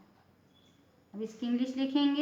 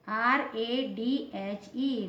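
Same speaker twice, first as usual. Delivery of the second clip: letters spelled out slowly one by one; slow spelling; much slower than usual. Shown as a demonstration. Teacher spelling a word slowly for students. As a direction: dictate each letter slowly for the class. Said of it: "teacher spells out letters".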